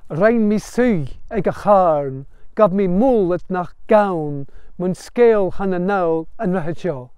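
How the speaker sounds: slow recited Gaelic verse; Gaelic recitation. Shown as a demonstration. Teacher reciting Rob Roy lament line, slow Gaelic chant. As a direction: intone the line slowly in Gaelic. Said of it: "the first line is".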